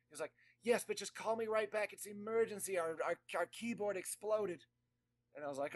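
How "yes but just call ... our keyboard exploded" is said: put-on high, frantic cranky old man; Max voice. Actor reporting his exploded keyboard, high and frantic. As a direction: pitch way up, frantic. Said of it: "do the Max voice for all this".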